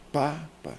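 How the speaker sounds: "papa" stressed on the first PA, falling after; penultimate stress. Shown as a demonstration. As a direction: lean on PA, let the end of "papa" drop. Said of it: "a penúltima sílaba". ("papa" com o primeiro PA tônico)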